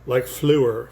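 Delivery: fleur said the French way, soft eu vowel. Shown as a demonstration. Poet shows the French sound of fleur. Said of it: "very soft French".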